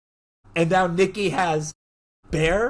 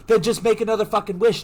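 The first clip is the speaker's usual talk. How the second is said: higher, louder, quicker impatient outburst; retold exasperation; 6 semitones higher, 5 dB louder, faster than usual. Ian dismissing his friend's wish story, exasperated. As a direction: fire it out, fed up with him.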